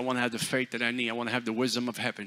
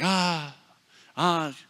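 retold yell; 4 semitones higher, 4 dB louder than usual.

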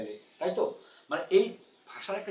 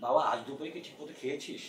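mock stilted drama mother; 2 semitones lower, 6 dB quieter than usual. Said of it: "নাটকের মধ্যে আমার মা যখন বলবে".

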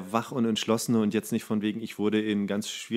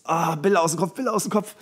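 mock panic; 6 semitones higher than usual. Imagined panicked inner voice.

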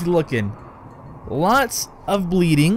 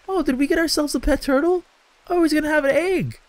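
delighted; 10 semitones higher, faster than usual. Real, not acted. Delighted at pet turtle.

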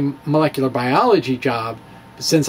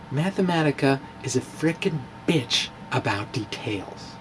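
muttered aside; 2 semitones lower, 9 dB quieter than usual. Real, not acted. Muttered aside about software.

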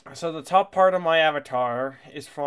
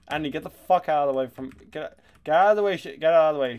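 fast, loud annoyed shout; frustrated yelling; 4 dB louder, much faster than usual. Real, not acted. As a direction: yell at him to move. Yelling at teammate in game.

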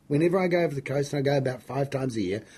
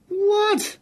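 shrill jump up to a very high "What?"; stunned yelp of disbelief, pitched way up; retold shock; 4 dB louder than usual. Retold shock at threatening call.

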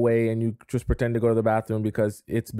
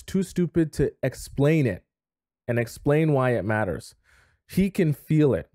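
usual speaking voice

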